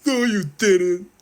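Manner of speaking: high, loud, slow squeaky denial; mock Gary refusing to believe it. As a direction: squeal it out in disbelief. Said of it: "He's like".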